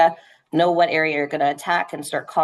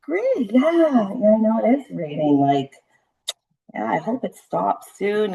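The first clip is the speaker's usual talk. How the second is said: mirroring calm; 3 semitones higher, slower than usual. Shown as a demonstration. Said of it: "I really have to take a moment when I get those people in".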